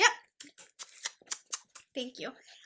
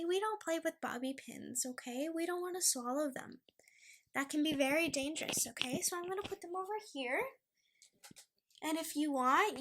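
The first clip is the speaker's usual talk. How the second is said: softer coaxing voice for the dog; soft pet talk; 6 dB quieter than usual. Real, not acted. Owner telling her dog Luna off gently, softly. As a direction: coax the puppy gently.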